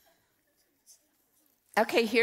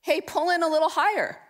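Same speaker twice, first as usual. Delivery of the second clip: higher, louder call across the water; coach calling out; 8 semitones higher, 4 dB louder than usual. Retold or imitated. Coach calling to a rower from her boat, loud and high. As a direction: call it out like through a megaphone. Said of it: "she would say something like".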